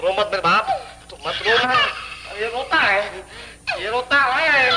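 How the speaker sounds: put-on loud pleading with the crying baby; loud coaxing. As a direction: raise the voice to hush the baby. (रोते बच्चे को ज़ोर से मनाना)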